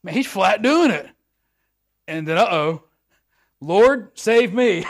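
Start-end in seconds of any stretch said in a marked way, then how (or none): 3.6-4.8 higher, louder panicked call; cry for help. Acted. Peter sinking in the water, shouting to the Lord. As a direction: yell it like you're going under.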